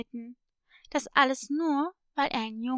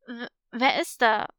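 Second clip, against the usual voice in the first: hesitant, stammered low question; cautious; 4 semitones lower, 4 dB louder than usual. Acted. Hippo brother calling to an unseen giggler, cautious. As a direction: stumble on the first word, then ask warily. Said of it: "fragte Rick vorsichtig".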